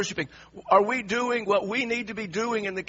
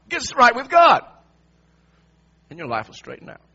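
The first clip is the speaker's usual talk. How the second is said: a scolding friend growing louder; preachy judgmental friend; 6 dB louder than usual. Retold or imitated. Preacher voicing a judgmental friend to the congregation, louder scolding. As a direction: lecture the sufferer to get right with God, building. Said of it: "Are you a friend like that?".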